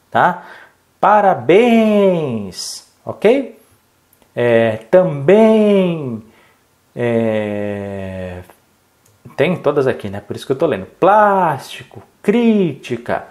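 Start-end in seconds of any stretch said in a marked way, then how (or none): 1.0-2.9 calling across street. Shown as a demonstration. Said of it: "gritando essa palavra pra alguém". 4.9-6.2 calling across street. Shown as a demonstration. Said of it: "gritando essa palavra pra alguém". 10.9-12.0 calling across street. Shown as a demonstration. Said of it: "gritando essa palavra pra alguém". 12.2-13.3 calling across street. Shown as a demonstration. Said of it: "gritando essa palavra pra alguém".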